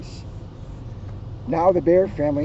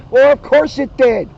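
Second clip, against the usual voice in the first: wry aside; 7 semitones higher, 7 dB louder than usual. Real, not acted.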